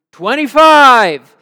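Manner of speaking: long, drawn-out shout across the cell block; inmate calling out. Retold or imitated. A prisoner shouting a joke number to the cell block, drawn-out yell. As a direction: bellow the number slowly. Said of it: "he hears".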